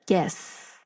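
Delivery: breathy, low, very slow agreement; a touch of low, slow hushed awe; awed agreement. Acted. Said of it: "And now me is like".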